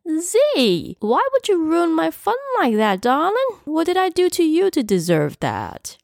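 very high, wailing ghost voice; campy, high-pitched dismay; horrified ghost. A narrator's reading. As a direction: plead in a high, wounded whine. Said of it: "An actual look of horror overcame him".

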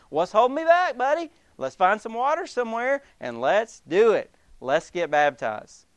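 eager eunuch. Acted. Voicing the eunuch to Philip.

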